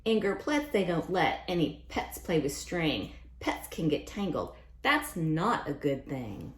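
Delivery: lively picture-book read-aloud; sing-song storytime rhyme; reading to children. A narrator's reading. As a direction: read the rhymes brightly to a class. Reads the Things' lines.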